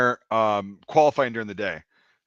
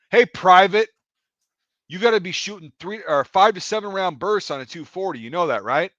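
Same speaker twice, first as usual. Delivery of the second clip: louder, higher mock range-safety voice; condescending callout; 6 semitones higher, 5 dB louder than usual. Range safety E-4 lecturing a private, condescending. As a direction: talk down to a junior soldier.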